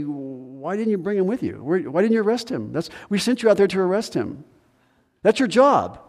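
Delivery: scolding the officers for failing; indignant chief priests. Retold or imitated.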